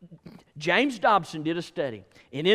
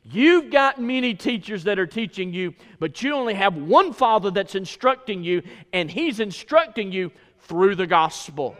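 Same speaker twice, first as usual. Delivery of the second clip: measured, forceful pulpit delivery; emphatic preaching; 3 dB louder than usual. Acted. Preacher relays Paul's words to the church, emphatic preaching. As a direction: preach it with punched key words.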